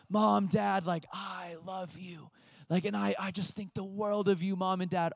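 butter up the parents, playfully overdone; mock gushing. Child flattering Mom and Dad, mock gushing.

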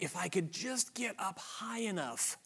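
soft, hushed wishful musing; a quiet daydreaming believer; wishful inner voice. Retold or imitated. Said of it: "Some of you think".

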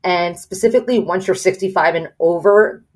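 speaking with a room echo. Real, not acted. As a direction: voice echoing in a big hall. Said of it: "I'm echoing".

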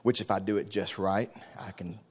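very soft, sleepy murmur; mock quiet churchgoer. Shown as a demonstration. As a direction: act out sitting silent in the pew. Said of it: "By sitting very quiet".

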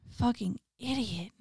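slow, soft, breathy ghost whisper; eerie whisper. Acted. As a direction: hiss it slowly like a ghost. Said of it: "The intruder was whispering".

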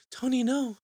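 high-pitched mock dismay; acted, high "no" of horror; retold shocked plea. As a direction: cry out at the screen in dismay. Acts own shocked reaction to film.

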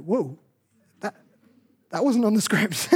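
taken aback. Retold or imitated. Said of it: "And you go".

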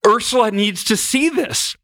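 high, slow mock-tearful declaration; retold bawling. Husband finally crying before dawn wants wife to see, mock bawling. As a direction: imitate a tearful urge to show someone. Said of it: "I just am bawling".

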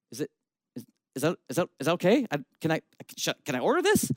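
soft, stammering, asking permission; nervous hesitation. Retold or imitated. Diner asking the pastor about a drink, softly stammering. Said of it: "they look up at me and go".

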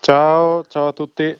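high, loud hello; bright greeting. Real, not acted. Guest greets listeners.

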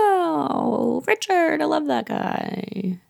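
father hearing of the wedding, high and delighted. Retold or imitated. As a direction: coo it slowly, way up high. Trotty delighted.

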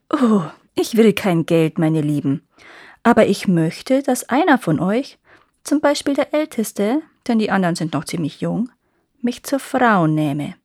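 lightly voiced scheming old witch; a hint of a crafty crone, coaxing; sly old witch. Witch demands marriage.

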